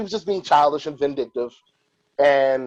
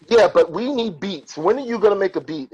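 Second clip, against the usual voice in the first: angry East Coast; 5 semitones higher than usual. Retold or imitated. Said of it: "very angry and aggressive in East Coast".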